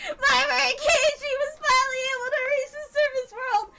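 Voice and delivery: grand villain proclamation. Acted. Grand announcement of the demon lord.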